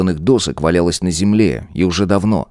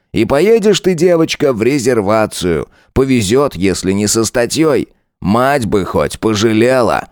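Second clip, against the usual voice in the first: mocking lieutenant; 4 semitones higher than usual. Lieutenant Saigar mocking Tanya, lightly voiced sneer. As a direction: lean into the lines like a smug bully.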